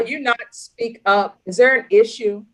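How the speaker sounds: real courtroom rebuke; stern scolding. Real, not acted. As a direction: challenge them like an impatient judge. Judge scolding defendant for not answering.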